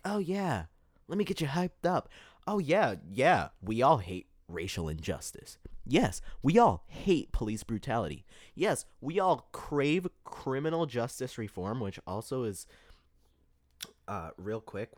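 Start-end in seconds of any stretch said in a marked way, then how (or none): 0.0-11.8 mock hype-man politician, pitched up; politician rhetoric. Mocking campaign promises to her viewers in a hammed-up politician voice. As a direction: pander to the crowd like a slick politician. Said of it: "that's politician rhetoric right there".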